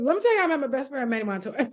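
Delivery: rushed mock boast through laughter; laughing mock storyteller. Friend parodying his celebrity story, laughing mockery. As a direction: tease with a gabbled, laughing retelling. Teasing impression of repeat storyteller.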